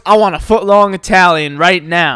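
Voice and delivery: lightly voiced grumpy customer demand; a hint of a disgruntled man ordering; mild mock disgruntled grumble. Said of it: "in the most disgruntled voice".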